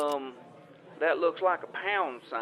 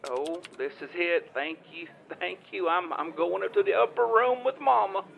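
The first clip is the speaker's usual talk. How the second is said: blissful laughing thanks; 5 semitones higher than usual. Retold or imitated. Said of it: "and I was like".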